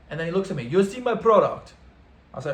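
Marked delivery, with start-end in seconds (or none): 0.6-1.7 louder, higher imitated boss question; dealer confronting him. Head honcho looks straight at a visitor, hint of a dealer's demand. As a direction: lightly act the insistent dealer.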